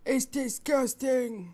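mocking imitation. Streamer mocking the ranting woman with a put-on voice. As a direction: parrot her line in a put-on voice.

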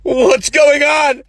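high, very slow shouted question; bewildered shout. Acted. Dead man shouts at the unreal scene. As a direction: yell it in confusion.

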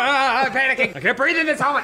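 mock panic. Player pretending the character panics in the helmet. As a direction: fake breathless panic, laughing.

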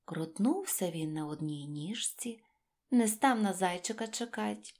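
ordinary delivery, nothing marked

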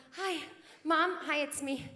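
a lightly voiced polite baby introducing himself; newborn greeting mom. Newborn meeting his mother at a party, lightly voiced baby. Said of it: "He's not coming up to you at a little soiree going".

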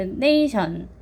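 "nation" stressed on its first syllable. Shown as a demonstration. Teacher points to the front A, first-syllable stress. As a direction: lean on "na", let "tion" drop. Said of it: "앞에 있는 A에 강세".

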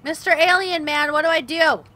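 loud exasperated plea to the alien. Real, not acted. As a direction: beg the alien loudly. Pleading with game character.

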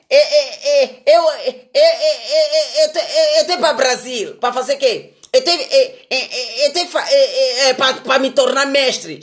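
a light, laughing imitation of someone stuttering out excuses; mock stammering. Mocking the man who flies to Brazil to become a master, in a stammering voice. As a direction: stammer through it like a flustered student, half laughing.

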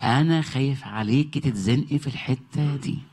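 slow, caring, protective plea; God's tender voice. Acted. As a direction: speak as a loving God worried for his child. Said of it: "يعني رب يقول".

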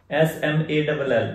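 spelling out S-M-A-double-L letter by letter; "एस एम ए डबल एल" said letter by letter; spelled-out letters. Shown as a demonstration. Teacher spells out "एस एम ए डबल एल" for students. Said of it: "ओल की आवाज देता है".

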